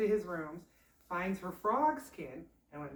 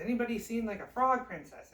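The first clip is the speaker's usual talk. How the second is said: raised, pleading appeal to a crowd; acted public plea, pitched up; calling out; 5 semitones higher, 6 dB louder than usual. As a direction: ask around loudly for help. Prince asks everyone he meets.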